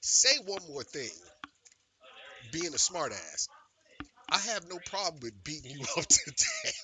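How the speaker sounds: half-laughing threat; retold threat. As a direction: warn them off, breaking into a laugh. Retold threat to rude diners.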